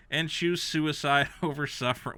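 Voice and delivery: laughter breaks into the words; laughing through it. Real, not acted. Reading the review aloud, laughing through it. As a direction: laugh despite the dark line. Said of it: "Why am I laughing?".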